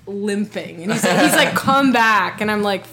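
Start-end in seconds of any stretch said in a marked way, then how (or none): 1.5-2.4 mild mock call-out; retold yell. Imitating ex calling to limping storyteller, mild mock yell. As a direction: call after someone, half laughing. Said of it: "he, like, yells at me".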